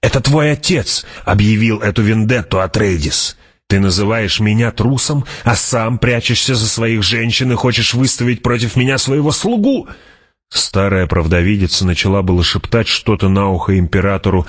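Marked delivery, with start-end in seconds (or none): 0.0-9.9 high, mounting accusation; indignant challenger. Acted. Feyd-Rautha accuses Paul of cowardice, indignant. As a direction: climb higher toward an outraged end.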